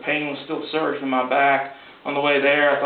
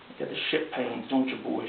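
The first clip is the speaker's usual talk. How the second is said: put-on old country woman; 2 semitones lower, 10 dB quieter than usual. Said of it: "she said".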